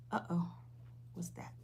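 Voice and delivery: very soft, whispered aside; barely audible puzzled mutter; puzzled self-talk. Real, not acted. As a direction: murmur it to yourself. Puzzling over screen to herself.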